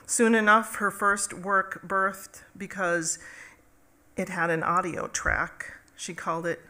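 measured storytelling recital, pausing between phrases; poem reading. Acted. Poet shares new Sky Woman poem with audience, measured recital. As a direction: tell it as a spoken poem, each stanza launched firmly. Reads own poem aloud.

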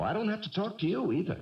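defensive arguing. Acted. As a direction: argue back, pitch jumping on the key words. Quarrel over going back to school.

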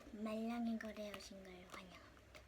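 hushed host welcome; whispering. Acted. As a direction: whisper the welcome like a secret show. Whispered welcome to trading show.

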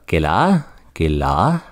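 "kela" with an h breathed out at the end. Shown as a demonstration. Teacher models the aspirated word for students. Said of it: "I'm kinda breathing it out".

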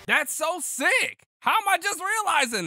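high, loud delighted outburst; excited exclaim. Real, not acted. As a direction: gush with amazement. Excited realization.

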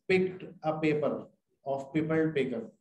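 spelled out slowly word by word; slow deliberate reading. Shown as a demonstration. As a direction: drag the tongue twister out. Rereading the tongue twister.

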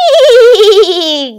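high, loud piercing screech; shrill bird-witch cry; harpy shriek. Acted. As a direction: screech in triumph. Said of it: "gridò la grande strige".

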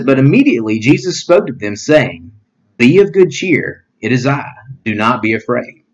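measured, solemn Bible reading; scripture reading. Acted. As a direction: read the passage to the congregation. Rereads verse twenty-seven.

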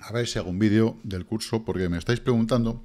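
talking with mouth full of pistachios; words round a mouthful of nuts; chewing while talking. Real, not acted. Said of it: "es que estaba comiendo pistachos".

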